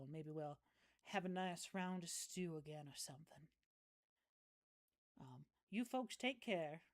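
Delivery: easygoing country neighbour, lightly played; lightly voiced folksy local woman. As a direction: play a friendly backwoods local, understated. Same woman says goodbye.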